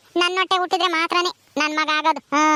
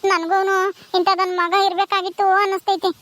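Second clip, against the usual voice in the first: acted crying. Childless woman alone, longing for a baby, tearful lament. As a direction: plead tearfully to God. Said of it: "ಯಾಕ್ ಅಳ್ತಾ ಇದೀಯ".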